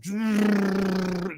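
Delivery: imitated whirring noise. Imitates limbs whirling loading wood.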